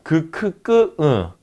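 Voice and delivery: "그, 크, 끄, 으" one by one, ending on a nasal; velar sound series. Shown as a demonstration. Lecturer recaps velar sounds, "그, 크, 끄, 으" each separated. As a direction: run through the velars "그, 크, 끄, 으". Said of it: "이런 소리들이 전부 다".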